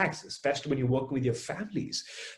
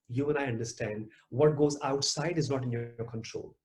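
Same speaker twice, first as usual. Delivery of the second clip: ordinary talk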